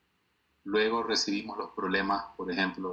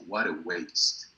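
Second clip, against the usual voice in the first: slow lament; 3 semitones lower, slower than usual. Shown as a demonstration. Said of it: "Lamentablemente desperdiciamos mucho".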